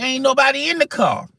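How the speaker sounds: high, baffled muttering to himself; stunned squeak of disbelief; puzzled inner thought. Retold or imitated. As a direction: act like you're staring into an empty car. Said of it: "I'm going like".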